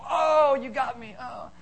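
hammed-up death cry fading away; slain Goliath. Dad plays Goliath slain by his boys, mock dying. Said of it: "let 'em slay you as Goliath".

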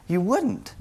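settled, falling final answer; firm no. Acted. Preacher settling his own question, firm and final. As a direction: close the point quietly and firmly.

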